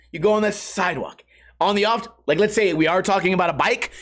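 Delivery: ordinary talk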